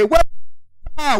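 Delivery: high, whooped cheer; celebratory Puerto Rican holler; Puerto Rican yeehaw. Shown as a demonstration. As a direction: whoop it out with pride. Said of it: "it's just Puerto Rican yeehaw".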